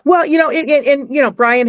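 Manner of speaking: choked up, she can barely get the words out; real crying. Real, not acted. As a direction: voice breaking into tears. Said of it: "I gotta grab a tissue".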